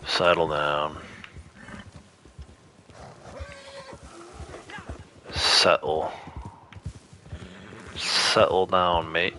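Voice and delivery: a light, mock British accent, slowed down; lazy stab at a British accent. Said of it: "That's my impression of a British accent".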